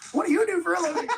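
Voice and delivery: high, loud, laughing mock host voice; poking fun at his rally crowd work; Jordan Peterson crowd work. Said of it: "Yeah, Jordan Peterson, like".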